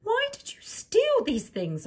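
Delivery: high, whispered, shocked queen; shocked mother whispering; whispered question. Acted. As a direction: whisper it in disbelief. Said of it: "asked the queen".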